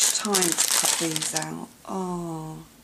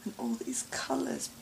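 awed whisper; 3 semitones higher, 3 dB quieter than usual. Real, not acted. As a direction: breathe the words over the colours. Admiring colours, hushed.

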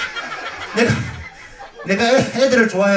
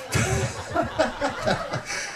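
soft laugh; 8 semitones higher, 10 dB quieter than usual. Real, not acted. Laughs at the crowd.

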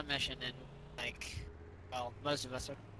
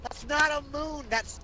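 high disbelieving protest; can't believe this is the moon; incredulous exclaim; 9 semitones higher than usual. Real, not acted. Exclaiming about planet.

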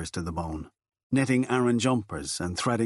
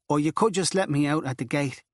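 put-on higher pleading Dublin girl; earnest girl; 5 semitones higher than usual. Girl pleading with Furlong at the convent, earnest. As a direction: push the plea a little further. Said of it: "She was dead in earnest".

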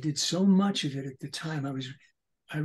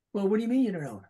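second character voice; 5 semitones higher, 3 dB louder, much faster than usual. Retold or imitated. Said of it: "talk to myself".

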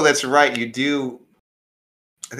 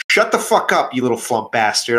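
angry outburst; 4 dB louder than usual. Acted. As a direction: tear into the interrupting underling. Acted quarrel, snapping at interrupting flump.

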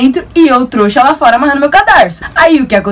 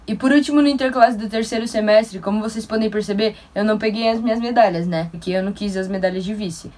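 much softer, confiding tone; quiet aside; 10 dB quieter than usual. Acted. Telling viewers why she skipped the medals, much softer. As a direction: drop your voice to a near hush. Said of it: "deliberately dropped voice aside".

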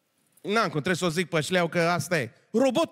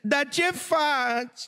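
high, slow coaxing voice, don't cry; cooing it high and slow like to a child; mock comforting; 9 semitones higher, much slower than usual. Drunk woman's mock comforting. (voce subțire și lentă de alintat)

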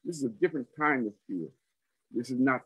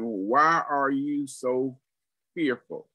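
slow rebuke; slower than usual. Retold or imitated. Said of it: "he says to them".

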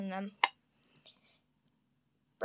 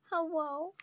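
put-on baby dinosaur voice; 2 semitones higher than usual. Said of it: "if you can't understand what he's saying".

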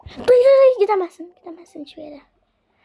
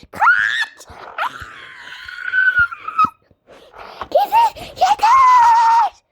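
shout; 4 dB louder, much slower than usual. Pretend. Chaos, shouting.

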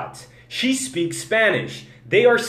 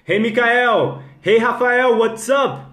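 high, loud hellos; hearty greeting; 5 semitones higher, 5 dB louder, slower than usual. Real, not acted. Host hails Mikael and Rafael, hearty greeting. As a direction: call out to each by name. Greeting live viewers as they join.

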